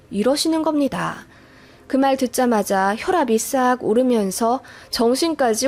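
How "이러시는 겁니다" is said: usual speaking voice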